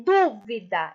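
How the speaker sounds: "dúvida" slowed, leaning on the opening DÚ; stressed first syllable. Shown as a demonstration. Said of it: "ela é antepenúltima".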